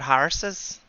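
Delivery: "horses" with an Irish ah vowel; demonstrated Irish accent on "horses". Shown as a demonstration. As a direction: say "horses" as mock-Irish "HAR-suz". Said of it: "That's how you start an Irish accent".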